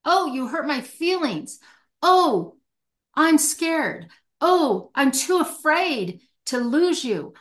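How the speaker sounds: a light show of hurt and fear; mock vulnerable admission. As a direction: voice it like a hurt child owning up. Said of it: "We're not admitting".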